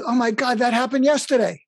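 high, imitating a startled listener; retold surprise. Listeners retell their shocked reaction.

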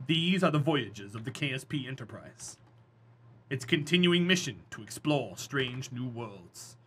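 low, soft dramatic narrator; Star Trek intro. Retold or imitated. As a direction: intone it like Captain Kirk. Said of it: "Star Trek opening parody".

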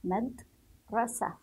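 مدرسة broken slowly into mad, then rasah; slow dictation. Shown as a demonstration. Teacher writes the word, saying مدرسة slowly in parts. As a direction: split مدرسة with a pause after the d. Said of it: "انظروا كيف سأكتب كلمة".

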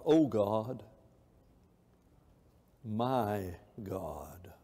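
fading to a hushed whisper; soft whispered plea to God; whispered prayer. Acted. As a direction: breathe it out like a private prayer. Quoting the psalmist's prayer.

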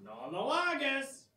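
spoken in Spanish, high and soft. Acted. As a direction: say it softly in Spanish.

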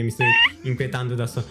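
ordinary delivery

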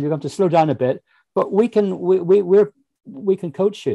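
high, eager commentator voice; excitable motor racing commentator; Murray Walker. Retold or imitated. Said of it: "Cracking Murray impression as well".

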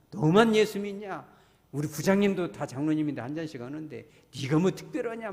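mocking peer pressure, opening loud; imitated sneer. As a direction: needle them like a jeering coworker. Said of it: "막 이러면서 막 비꼬고". (직장 동료의 비꼬는 말투 흉내)

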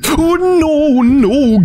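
startled cry. Real, not acted. Startled by a monster.

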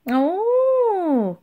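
high, drawn-out ooh; cooing. A narrator's reading. Pensioners tease the admiral, cooing. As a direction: coo it long and high. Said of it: "cooed the pensioners".

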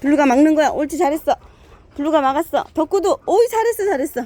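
high excited dog praise; talking to a dog. Real, not acted. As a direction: gush praise at the dogs.

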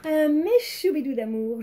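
high loud gushing. Real, not acted. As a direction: gush affectionately at fans. Gushing to fans.

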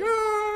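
high, long yelp like a caged dog; imitated dog yowl. Owner imitating the new pit bull at bedtime, high yowl. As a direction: mimic the pit bull's piercing cry. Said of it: "She's like".

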